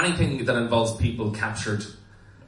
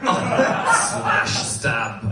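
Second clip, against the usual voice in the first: mock shouting; 4 semitones higher, 6 dB louder, much slower than usual. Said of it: "he was like".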